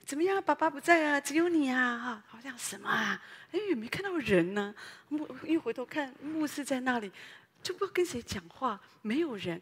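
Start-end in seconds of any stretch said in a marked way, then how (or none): 0.0-4.7 lightly mock baby talk.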